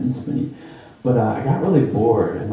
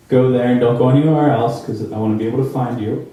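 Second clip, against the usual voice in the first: louder, firm fatherly warning; stern cautious dad; 2 semitones higher, 4 dB louder than usual. Retold or imitated. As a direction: lay down the rule like a worried dad. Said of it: "very, uh, perennial".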